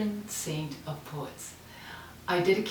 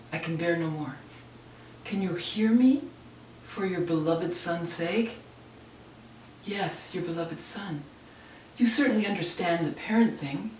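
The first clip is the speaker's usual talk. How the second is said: poem reading. Acted. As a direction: lament to God, emphatic openings then subdued. Reads her lament to God.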